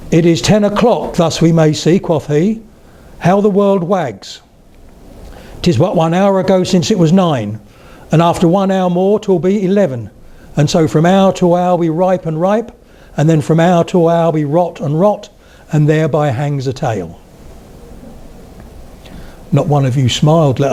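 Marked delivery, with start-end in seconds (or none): 0.1-2.0 lightly put-on Standard English recital. Shown as a demonstration. Lecturer quoting As You Like It to the audience, in Standard English. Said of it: "Because I did it in Standard English". 2.0-17.2 lightly put-on Standard English recital. Shown as a demonstration. Lecturer quoting As You Like It to the audience, in Standard English. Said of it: "Because I did it in Standard English".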